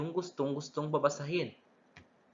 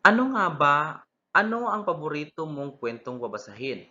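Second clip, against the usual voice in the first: put-on child voice in a dialogue; 4 semitones higher, 3 dB louder than usual.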